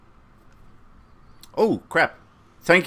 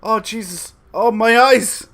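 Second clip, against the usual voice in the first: loud, high, appalled cries; real revulsion, shouting; disgusted yelling; 8 semitones higher, 8 dB louder, slower than usual. Real, not acted. Cat farts during live show.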